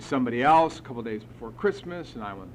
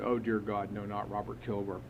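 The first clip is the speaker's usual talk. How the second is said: pleading prayer; 5 semitones lower than usual. Retold or imitated. Sponsor praying to be spared a new sponsee, pleading. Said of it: "this is what he prayed to God".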